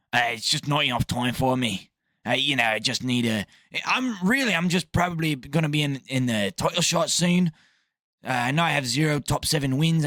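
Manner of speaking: mock Irish accent, making excuses; lightly hammed-up Irish accent; Ian Gary. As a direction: imitate an Irish fighter backing out. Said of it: "Ian Gary called U F C back and went".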